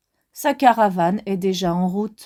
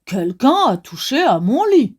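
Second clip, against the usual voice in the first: growling big bear; 4 dB louder than usual. Acted. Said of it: "grogne de sa grosse voix".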